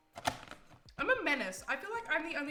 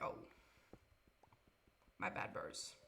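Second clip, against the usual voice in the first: whispered; 9 dB quieter than usual. Retold or imitated. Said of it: "and I'm like".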